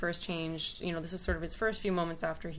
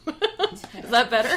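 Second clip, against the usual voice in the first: mock Scottish accent; 5 semitones higher, 9 dB louder, slower than usual. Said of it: "you gotta do your best Scottish accent".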